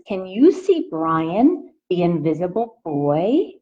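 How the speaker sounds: gentle picture-book read-aloud voice; reading to children. A narrator's reading. Teacher reading a picture book to her class, in a gentle read-aloud voice. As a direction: read it out to the little ones, asking. Reads the book's opening question.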